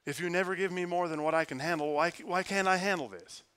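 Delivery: a desperate why said straight up to heaven; pleading complaint. Retold or imitated. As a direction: ask God why, exasperated and pleading. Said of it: "But it's just".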